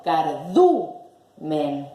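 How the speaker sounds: slow "cardumen" with middle du punched; stress on DU. Shown as a demonstration. Teacher giving the correct stress, "cardumen" stressed on du. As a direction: split "cardumen" and lean hard on DU. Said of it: "Digo cardumen".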